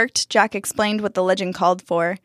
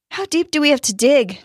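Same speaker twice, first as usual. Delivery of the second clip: panting; 7 semitones higher, 3 dB louder than usual. Acted. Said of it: "Dustin panted".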